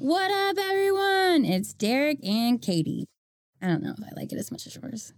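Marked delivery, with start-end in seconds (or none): 0.0-3.1 high, excited podcast intro; imitating Derek's intro. Shown as a demonstration. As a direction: hype up the show intro. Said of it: "I can't do it like you".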